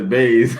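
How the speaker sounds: BAYS with z in place of th; mom's bays. Retold or imitated. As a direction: say bathe as a slow BAYS. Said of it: "My mom says bays".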